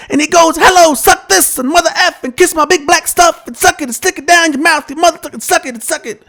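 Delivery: put-on high, pleading kid voice; child voice. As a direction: beg like a little boy. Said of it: "He says".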